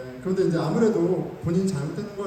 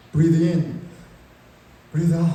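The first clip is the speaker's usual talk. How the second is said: calming self; 2 semitones lower, 4 dB louder, much slower than usual. Retold or imitated. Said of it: "막 이렇게 하면서 이제 속으로 하고".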